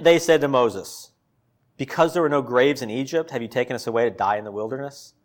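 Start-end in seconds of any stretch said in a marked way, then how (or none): 1.8-5.1 mocking rhetorical jab; sarcastic. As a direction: sneer the question back at Moses. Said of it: "Hear, like, that tone?".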